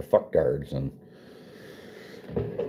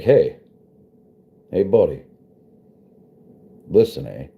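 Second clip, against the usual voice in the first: put-on light Canadian accent, loud start; Canadian accent, friendly and loud; 4 dB louder than usual. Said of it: "That's my Canadian accent".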